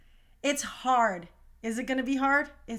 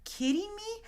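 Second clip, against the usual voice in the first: incredulous; 5 semitones higher, 3 dB quieter than usual. Retold or imitated. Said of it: "And I was like".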